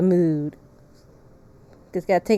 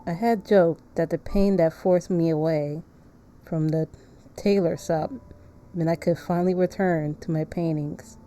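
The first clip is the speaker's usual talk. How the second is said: lower, softer narrating voice; story narration; 3 semitones lower, 5 dB quieter than usual. Acted. Streamer reading the game's narrator aloud, subdued narration. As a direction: read it as measured, subdued narration.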